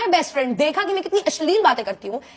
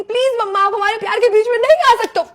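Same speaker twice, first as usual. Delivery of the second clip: dramatic plea; 6 semitones higher, 5 dB louder than usual. Retold or imitated. Dramatic love plea to mother.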